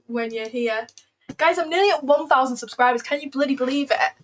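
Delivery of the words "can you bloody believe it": emphasis on "bloody" in a British accent; stress on bloody. Real, not acted. Streamer thrilled at nearly a thousand subscribers, stressing "bloody". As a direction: lean hard on "bloody", British style. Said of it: "emphasis on bloody in my British accent".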